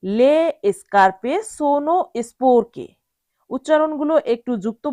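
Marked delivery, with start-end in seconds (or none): 0.0-2.9 careful model sentence. Shown as a demonstration. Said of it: "আবার বলছি".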